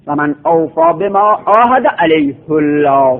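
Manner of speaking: علیه الله recited as alayhu with a heavy Allah; Quranic recitation. Shown as a demonstration. Teacher gives the reading of the seven reciters. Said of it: "قراء سبعه هم حکم به تفخیم کردند و علیه خوندند".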